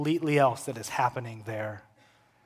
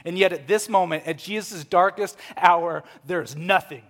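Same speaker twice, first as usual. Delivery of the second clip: louder, emphatic pulpit delivery; impassioned preaching; 5 semitones higher, 8 dB louder than usual. Real, not acted. Preacher telling of Jesus' darkest hour, emphatic. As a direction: preach the contrast with force.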